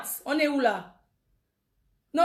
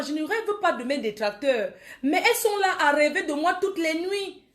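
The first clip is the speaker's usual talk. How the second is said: laughing mockery; 4 semitones higher than usual. Real, not acted. Mocking detractors while laughing.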